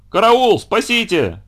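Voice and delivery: high, loud cry for help; бабушка кричит. Acted. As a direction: scream for help in panic. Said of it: "закричала бабушка". (бабушка кричит «караул», упав на плиту)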